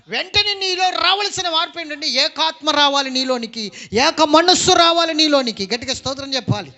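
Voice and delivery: forceful, driving sermon delivery; impassioned preaching. Real, not acted. Preacher urging believers to be of one spirit, impassioned preaching. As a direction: preach it hard to the congregation.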